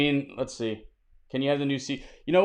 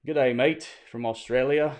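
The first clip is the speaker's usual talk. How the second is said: put-on half-hearted Australian accent, pitched up; failed Australian accent; 3 semitones higher, 4 dB louder than usual. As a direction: try an Australian greeting and miss the accent. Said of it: "I can't do the accent".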